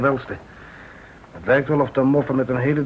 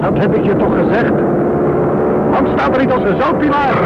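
rising, much higher urgent shout; alarmed shouting; 11 semitones higher, 6 dB louder than usual. Acted. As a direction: yell at the frozen soldier to move. Invasion begins, sergeant alarmed.

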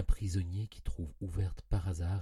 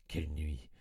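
1 whispered dread; 3 semitones lower than usual. A narrator's reading. Recalling a terrible night.

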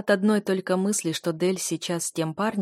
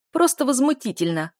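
higher, louder, gasping for air between words; breathless outrage; 6 semitones higher, 6 dB louder than usual. A narrator's reading. Duchess, frantic at her husband over their daughter, breathless outrage. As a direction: choke out the outrage, panicked. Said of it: "захлёбывалась воздухом герцогиня".

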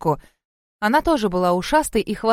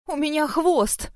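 slow, higher drawn-out wail; higher, slow wailing cry; 6 semitones higher, slower than usual. A narrator's reading. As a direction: howl it out in dismay. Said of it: "провыла я".

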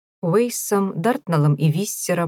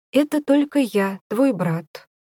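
strained; 7 semitones higher than usual. Acted. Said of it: "Прозвучало это довольно натянуто".

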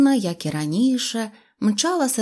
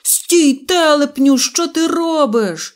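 loud, high-pitched yell; panicked shout; 6 semitones higher, 6 dB louder, slower than usual. A narrator's reading. Pistriavenkyi yells at Neznaiko before the train hits, shouting high. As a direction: shout out, stretching the last words. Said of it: "і закричав".

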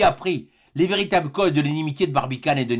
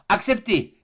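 high, sudden cry; exclaiming; 7 semitones higher, slower than usual. A narrator's reading. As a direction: cry it out at once, pitched high. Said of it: "s'écria Barbicane". (exclamation vive)

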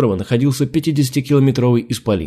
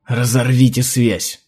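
through gritted teeth; slower than usual. Acted. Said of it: "процедила".

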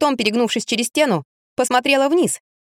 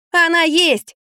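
insistent shout; 8 semitones higher, slower than usual. A narrator's reading. Trapped woman insisting.

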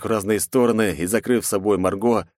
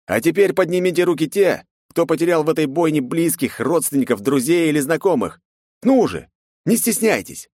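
commanding challenge; 9 semitones higher, 3 dB louder than usual. A narrator's reading. Hero challenges crowd.

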